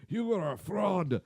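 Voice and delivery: high-pitched, silly accusing voice; John Williams. Pretend. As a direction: accuse in an absurd put-on high voice. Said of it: "I don't know why he sounds like that".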